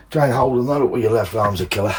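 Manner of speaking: out of breath, straining; puffing and panting while lifting; breathing like a pug. Real, not acted. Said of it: "I'm breathing like a pug".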